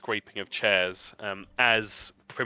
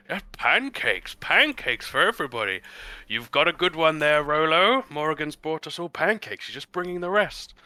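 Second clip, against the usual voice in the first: raised, cheery host voice; lightly voiced cheerful host; jovial Harley Ten; 7 semitones higher, 6 dB louder than usual. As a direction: cover the noise, loud and bright. Harley Ten voiced through door.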